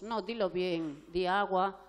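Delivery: put-on adult drilling a child to repeat the word; insistent correcting. Shown as a demonstration. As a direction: demand the child say it right. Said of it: "tampoco le decimos".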